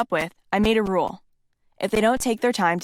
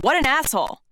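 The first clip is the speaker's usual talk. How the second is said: mild mock yell; 6 semitones higher than usual.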